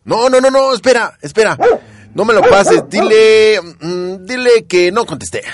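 high, loud panicked begging; panicked pleading. Acted. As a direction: beg her not to pass the call. Leo begs not be connected.

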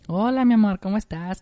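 high, lilting lovey phone hello; mock sweet boyfriend greeting. Boyfriend answers his girlfriend's call among friends, mock sweet.

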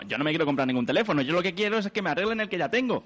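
insistent, rising objection; agitated customer refusing the sales pitch; worked-up protest. Real, not acted. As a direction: push back hurriedly, getting agitated. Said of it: "no se altere, por favor".

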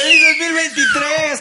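a loud New Year cheer; excited shout. Real, not acted. Echoing the new year yell. (grito de festejo)

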